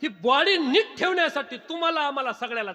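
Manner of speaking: high, loud preacher's delivery; emphatic preaching. Acted. Preacher tells villagers the body is perishable, loud and emphatic. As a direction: hammer each phrase out high and loud.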